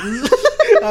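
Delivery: squealing laugh breaking the quote; a high, loud laugh bursting out; high burst of laughter. Real, not acted.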